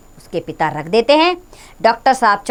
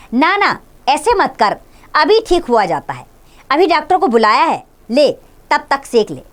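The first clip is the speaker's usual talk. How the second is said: coaxing mother; 4 semitones higher than usual. Acted. Mother coaxing her son with a stomach ache, lightly soothing. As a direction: soothe the child gently, mildly played. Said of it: "उसे पुचकार कर कहती है".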